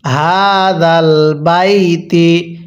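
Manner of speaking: very slow, drawn-out melodic recitation; slow chanted tajweed reading; Quran recitation. Shown as a demonstration. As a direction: recite each syllable long and sung. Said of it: "কিভাবে শিখব?".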